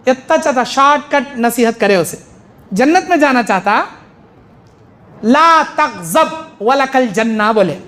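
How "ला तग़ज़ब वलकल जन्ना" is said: slow recitation. Acted. Reciting the hadith slowly.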